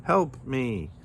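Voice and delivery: high, mock plea; crying for help. A narrator's reading. Kangaroo lures Rabbit to the garage, high cry. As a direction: plead high without raising volume. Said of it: "he cried".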